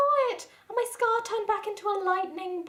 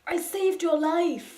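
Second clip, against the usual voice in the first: angry yell; 3 semitones lower, 4 dB louder, much slower than usual. Acted. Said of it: "he yelled angrily".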